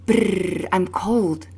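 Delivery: Brrr with a long trilled r, shivering; rolled r. Shown as a demonstration. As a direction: trill the Brrr like you're freezing. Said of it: "Like when you say".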